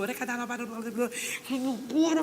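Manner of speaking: string of babbled mock-tongues syllables; imitated tongues. Intercessor starting up again, imitated tongues. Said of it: "E ela começou".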